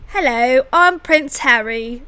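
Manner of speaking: a hammed-up British accent doing Prince Harry; Prince Harry impression. Co-host asked for a British accent, hammed-up British accent. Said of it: "here's my best Harry, Prince Harry accent".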